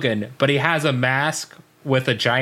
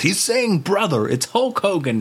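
high, mock accusing outburst; Vince McMahon; 6 semitones higher than usual. Boss catches the wrestler's slip, high mock accusation. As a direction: imitate a boss crying foul. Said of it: "And Vince McMahon goes".

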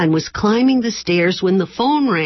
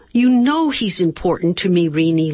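carefully. Acted. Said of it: "Lorna said carefully".

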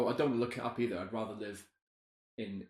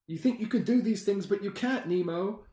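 quoting a character; 9 semitones higher, 4 dB louder than usual. Retold or imitated. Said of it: "And he says".

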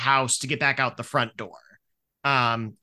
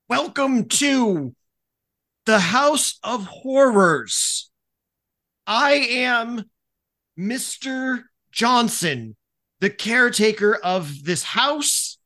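spooky haunted-house host; 9 semitones higher, 3 dB louder, much slower than usual. Acted. Tony reads haunted house welcome card.

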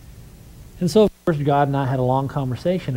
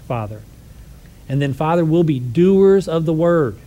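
closing prayer; 2 semitones higher than usual. Acted.

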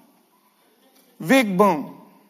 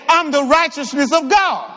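firm, raised preacher's shout; emphatic declaration; 3 semitones higher than usual. Shown as a demonstration. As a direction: model a strong declaration for the congregation. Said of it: "y'all said that so weak".

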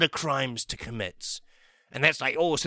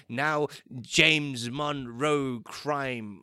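slow mock judge; 3 semitones lower, 3 dB quieter, much slower than usual. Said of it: "they're like".

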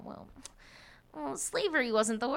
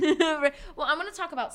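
laughing; 9 semitones higher, 9 dB louder than usual. Real, not acted. Laughing after a joke question.

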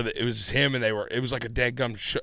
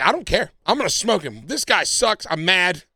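retold angry rant, higher and louder; temper tantrum; 6 semitones higher, 4 dB louder than usual. Player retelling his fit over losing the game, angry. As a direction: re-enact a worked-up mini tantrum. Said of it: "I was just throwing a temper tantrum".

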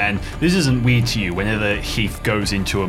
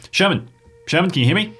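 calling over radio; 9 semitones higher, faster than usual. Acted. Calling over walkie-talkie.

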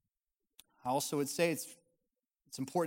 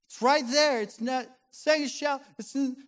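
yelling back; 10 semitones higher, 8 dB louder than usual. Retold or imitated. Wife answers from another room.

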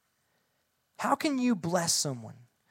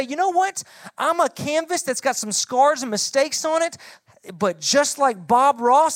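higher, louder earnest student declaration; voiced student vow; 5 semitones higher, 4 dB louder than usual. Preacher voicing a student vowing to admit mistakes, high and loud. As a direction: proclaim it like a brave sixth grader.

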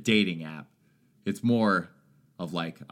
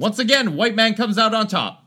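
loud ironic declaration; 13 semitones higher, 9 dB louder than usual. Pretend.

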